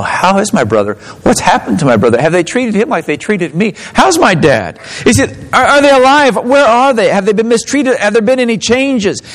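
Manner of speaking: urgent acted questions, climbing steadily in pitch; flood of emotion. Joseph wondering about his brother and dad, flood of emotion. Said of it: "imagine the flood of emotion".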